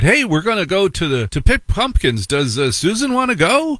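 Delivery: chirpy invitation; mock chirpy friend inviting; friendly parent. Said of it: "we had friends who said".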